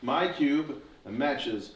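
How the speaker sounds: slow, hushed magic reveal; slow down for the big reveal; dramatic reveal. Acted.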